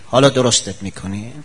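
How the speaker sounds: rising taunt, not dropping; taunting threat with rising tune. Acted. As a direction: throw it as a challenge.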